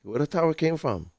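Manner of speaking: a hushed repeat once they're alone; hushed question. Retold or imitated. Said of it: "yeah, in private".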